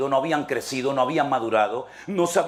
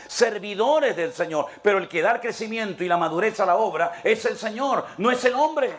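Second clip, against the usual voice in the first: higher, mildly exasperated rebuke; Paul's fed-up questions, pitched higher; irritated Paul; 5 semitones higher than usual. Acted. Paul rebukes the divided church, exasperated. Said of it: "Pablo se irrita, Pablo se enoja y dice".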